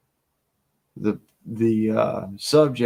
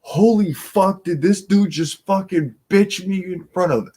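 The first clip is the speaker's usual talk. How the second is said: stunned disbelief; 8 semitones higher, 5 dB louder than usual. Retold or imitated. The bar guy just got put down by the dad, mock shock through laughter.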